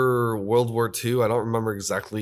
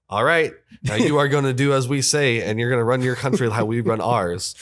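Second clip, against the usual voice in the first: louder, laying down the law in jest; mock bossy; 5 dB louder than usual. Acting out America dictating to postwar Japan, mock bossy. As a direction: lightly act out a firm order.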